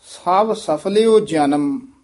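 slow recitation, ਸਫਲਿਓ held then a stop; ਸਭ ਸਫਲਿਓ, then a halt before ਜਨਮ; pause after ਸਫਲਿਓ. Shown as a demonstration. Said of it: "ਇੱਥੇ ਠਮਕ ਲਾ ਦੇਣੀ ਹੈ". (ਸਫਲਿਓ ਤੋਂ ਬਾਅਦ ਠਮਕ)

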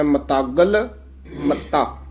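ਮਤਾਗਲ as one firm word; tight, joined-up. Shown as a demonstration. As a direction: lift ਮਤਾਗਲ unbroken, pause, drop on ਮੱਤਾ. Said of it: "ਇਕੱਠਾ ਹੀ ਪਾਠ ਬੋਲਣਾ ਹੈ".

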